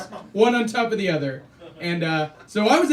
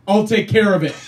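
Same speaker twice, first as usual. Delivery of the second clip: curt brush-off; 6 dB louder than usual. Shown as a demonstration. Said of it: "And then just go".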